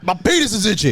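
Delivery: high-pitched comic complaint; mock distressed complaint. Acting out the embarrassing complaint.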